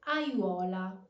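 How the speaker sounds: "Aiuola" at natural speed, a-ywo-la; triphthong glide. Shown as a demonstration. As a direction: say "Aiuola" as one smooth word with iuo in one glide. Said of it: "you must use the technique".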